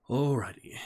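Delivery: whispered. Real, not acted. Returning to the reading.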